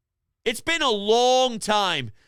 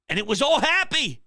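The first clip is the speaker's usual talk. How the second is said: ordinary delivery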